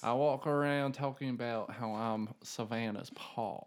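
lightly put-on Southern accent. Podcaster showing the accent he walks around in, light Southern accent. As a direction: play at a Southern accent, pitch near your own. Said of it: "we do Southern accents".

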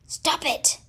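cried out. Acted. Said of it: "cried Mister Rat".

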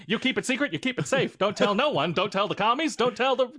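hammed-up old-Hollywood wizard warning Mister Baggins; Mid-Atlantic wizard. A friend doing Gandalf as an old Hollywood star, in a Mid-Atlantic accent. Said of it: "all my dwarves now are Mid-Atlantic".

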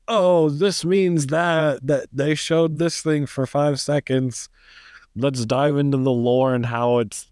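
mock fanboy. Mocking fans who overanalyse Marvel shows, eager and high.

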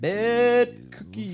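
slow, high, drawn-out segment title; announcer voice. Acted. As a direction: announce it like a show jingle.

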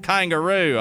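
attempted Australian accent; name the animal as an Australian would; put-on Australian accent. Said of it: "somebody was like".

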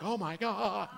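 soft breathy awe; awed hush. Retold or imitated. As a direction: gasp it in quiet wonder. Awestruck reaction to seeing glory.

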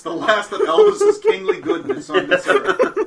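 high, slow, mock grandiose; grand announcer. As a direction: announce it like a showman.

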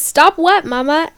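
high, loud teasing stop what; mocking his voice. Quoting her Tinder match, a high mocking tease. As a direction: mimic a smug guy, lightly. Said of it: "And he goes".

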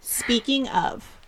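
slow, soft prompt; quiet. Acted. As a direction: murmur the cue slowly. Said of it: "repeats cue more insistently".

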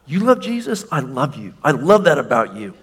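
gleeful Father, jumping up at the end; the Father beaming, can't contain his joy; excited Father. Acted. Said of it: "And he gets excited".

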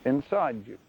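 low, soft, calm answer from God; quiet God voice. Acted. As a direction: answer gently from within.

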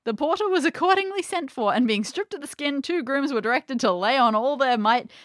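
theatrical storybook reading with voiced dialogue; story narration. A narrator's reading. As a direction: act out the old tale's dialogue lightly.

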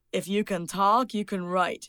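light imitation of a Canadian accent. Author quoting her business coach, mild Canadian accent. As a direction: put on a slight Canadian accent. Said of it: "That's my Canadian accent".

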